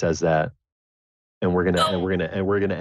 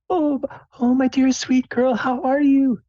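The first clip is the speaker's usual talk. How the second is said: loud, very high falsetto greeting; gushing mom; 6 dB louder than usual. Acted. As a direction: coo it like a doting mother. Mom hugs her daughter tight.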